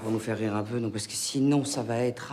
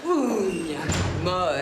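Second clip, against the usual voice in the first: camp exclamation; 7 semitones higher, 5 dB louder than usual. Acted. Aunt's exaggerated exclamation.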